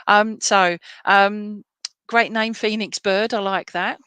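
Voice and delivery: loud, bright bird-like voice; a loud, soaring bird voice; Phoenix Bird voice. Retold or imitated. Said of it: "that was my Phoenix Bird impression".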